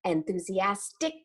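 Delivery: "enthusiastic" with every T sounded and a crisp final C; "enthusiastic" pronounced carefully, T and C clearly audible; very clear diction. Shown as a demonstration. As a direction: articulate each consonant of "enthusiastic", releasing the last C. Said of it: "words are pronounced very clearly".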